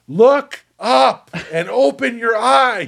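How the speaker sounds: really loud, high. Narrating a game scene, a shop owner walks up to you, speaking really loud. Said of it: "like really loud".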